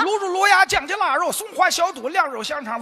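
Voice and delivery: 相声贯口，一口气顺溜报菜名; 像说相声那样有板有眼地背菜单; 报菜名贯口. Acted. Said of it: "我怎么听这词儿怎么这么熟啊". (相声贯口式报菜名)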